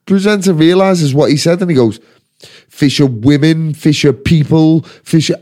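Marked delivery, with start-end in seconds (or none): 2.7-5.3 slow, deliberate mock correction; careful self-correction. Radio presenter fixing his wording, mock-careful. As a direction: imitate a presenter picking each term carefully.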